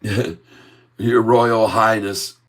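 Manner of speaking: slow, drawn-out royal title through laughter; hammed-up courtly address, laughing; laughing mock bow. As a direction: stretch the title out while chuckling.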